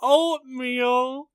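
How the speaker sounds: high, slow, laughing incredulity; laughing disbelief. Real, not acted. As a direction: squeal it through laughter. Laughing at the excuse.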